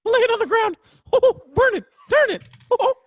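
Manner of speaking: high ghostly voice. Pretend. Voicing ghost quote.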